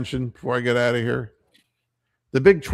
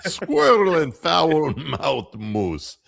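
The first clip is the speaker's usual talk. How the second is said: announcer voice; 4 semitones higher, much slower than usual. Pretend. Announcer-style title.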